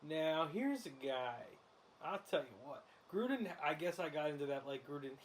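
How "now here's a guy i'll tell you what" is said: slow, drawn-out TV analyst voice; Collinsworth impression. Shown as a demonstration. Host demoing Collinsworth for his co-host, slow and drawn out. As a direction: stretch it like a folksy football color man. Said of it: "Collinsworth is more".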